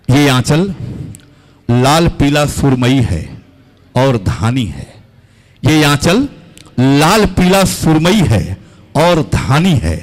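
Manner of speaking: slow, deliberate stage recitation; poem recitation. Acted. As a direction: recite each line with weight.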